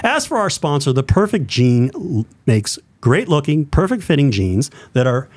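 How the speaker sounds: upbeat radio ad read. Shown as a demonstration. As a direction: read it like a ballgame radio announcer. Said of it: "I do my radio voice".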